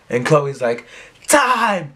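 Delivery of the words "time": high, drawn-out shout; hammy high-pitched yell; yelled response call. Retold or imitated. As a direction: finish the joint battle cry. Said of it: "and then you say time".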